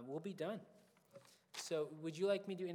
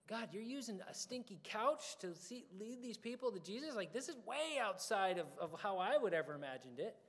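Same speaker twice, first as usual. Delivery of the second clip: higher-pitched, incredulous wonder; amazed exclamation; 4 semitones higher than usual. Retold or imitated. Preacher recalling his amazement at God using a couch, incredulous exclamation.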